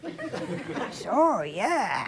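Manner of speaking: laughing through the reply. Retold or imitated. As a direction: chuckle while answering the boy. Reacting to boy's gift.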